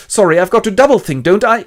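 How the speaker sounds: pained Winston. Acted. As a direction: whimper it out. After shock.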